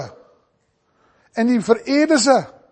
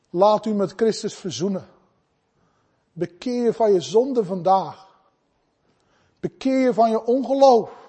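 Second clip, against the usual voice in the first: loving appeal. Real, not acted. Preacher calling the congregation to repent, lovingly. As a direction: appeal tenderly, with pauses between phrases. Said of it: "in alle liefde".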